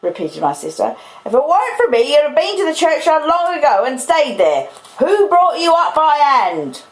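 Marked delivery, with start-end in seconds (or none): 1.2-6.8 high, shouted sister's tirade; angry, shouted demand; shouty scolding. Acted. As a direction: berate a child with pitch way up. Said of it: "I always thought she'd be quite shouty".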